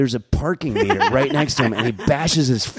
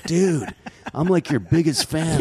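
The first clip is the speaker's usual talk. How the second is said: imitated fanboy, pitched higher; gushing fan; 6 semitones higher, slower than usual. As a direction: play an eager fan greeting his idol.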